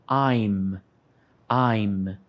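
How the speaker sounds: "I'm" said as one short syllable, slow and clear; teacher modelling "I'm" as one syllable for students to repeat; model pronunciation. Shown as a demonstration. Teacher drills students, saying "I'm" slowly as one syllable. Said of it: "vamos praticar a pronúncia".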